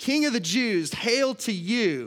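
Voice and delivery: sneering condescending jeer. Retelling how they mocked him as King of the Jews: imitating condescending mockery. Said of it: "in a very condescending way".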